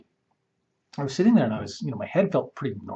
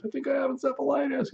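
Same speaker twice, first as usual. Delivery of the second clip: higher, strained mock panic; retold panicked call. Calling his wife while driving, a touch of panicked crying. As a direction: relive the tearful call, understated. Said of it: "I'm actually crying while I'm driving".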